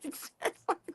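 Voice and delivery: a hushed whisper, barely voiced; whispered to self. Walking away from a singer, whispering to himself. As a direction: whisper it under your breath.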